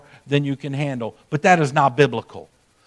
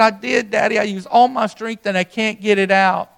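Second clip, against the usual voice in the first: lightly voiced little boy, a touch higher; little boy pleading; 4 semitones higher than usual. Small boy telling his daddy he used all his strength, lightly voiced and pleading. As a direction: plead like a small child who tried hard. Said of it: "He said".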